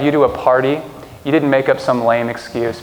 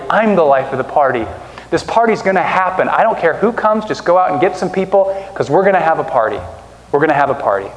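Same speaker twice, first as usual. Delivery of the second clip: master's reply. Retold or imitated. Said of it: "the master's saying".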